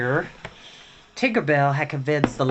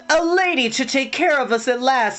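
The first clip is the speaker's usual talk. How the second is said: lightly voiced twin; 11 semitones higher, 5 dB louder than usual. A narrator's reading. Twin mourning, voiced higher.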